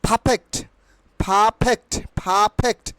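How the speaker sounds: "পারফেক্ট" said pha-phekt, no r; corrected pronunciation. Shown as a demonstration. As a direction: say "পারফেক্ট" carefully with puffed p. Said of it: "it will be perfect".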